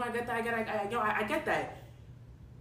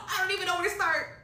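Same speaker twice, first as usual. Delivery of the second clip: slightly raised helpless voice at normal volume; subdued helplessness; 4 semitones higher than usual. Real, not acted. Client stuck with glue in her hair, subdued helplessness. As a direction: say it helplessly, reined in after a wail. Repeats it after the outburst.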